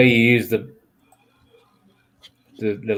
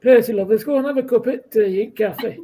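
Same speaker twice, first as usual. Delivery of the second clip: put-on higher old northern lady voice; Phyllis impression; 7 semitones higher than usual. Friend doing Coronation Street's Phyllis, lightly voiced old lady. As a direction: invite Percy like a fussy old neighbour. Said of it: "hidden talents when it comes to accents".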